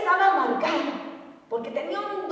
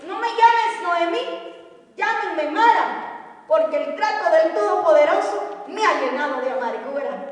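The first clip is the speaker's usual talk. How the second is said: angry Noemí; 4 dB louder than usual. Retold or imitated. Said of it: "Noemí se levantó enojada".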